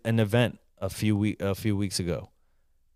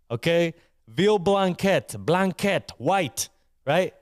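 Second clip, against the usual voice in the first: excited panic; 6 semitones higher than usual. Retold or imitated. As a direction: blurt it out as the memory hits. Panic remembering the forgotten veal.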